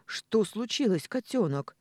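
тревожный вопрос, выше и громче; с беспокойством за дочь; встревоженно. Acted. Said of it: "встревоженно спросил он". (отец встревоженно спрашивает дочь)

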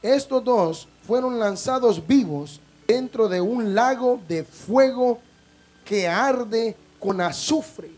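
slow, weighty Bible reading; solemn scripture reading. Acted. Pastor reading Revelation to the congregation, slow and solemn. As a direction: read each phrase slow and grave. Reads Revelation aloud slowly.

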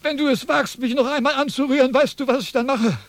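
high, heated warning; indignant threat. Acted. Philosopher warns shoemaker during scuffle, high heated voice. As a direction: warn him off sharply.

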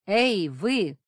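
loud call out; shout. A narrator's reading. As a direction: call out sharply. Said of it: "крикнул я".

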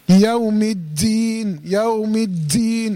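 slow recitation, الدين with a firmly held dal; strong dal. Shown as a demonstration. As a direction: press the doubled د in الدين with force. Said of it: "في شدة او قوة".

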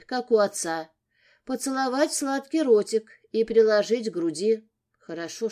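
ordinary delivery, nothing marked

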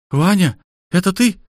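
a woman surprised and relieved; Olga's voice. Acted. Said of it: "Иван вдруг узнал этот голос".

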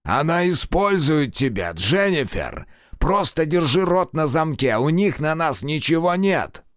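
man hissing at his accomplice; lightly voiced urgent man. A narrator's reading. Albrecht urging Jennifer.

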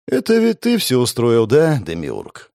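soulless doll voice, mumbled; talking doll. Acted. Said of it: "Голосом куклы без души пробубнил я".

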